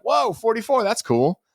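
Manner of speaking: high-pitched, re-enacted wow reaction; playful acted amazement; retold pleasant surprise. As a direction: act out being impressed, voice lifted high. Re-enacts own surprise at number.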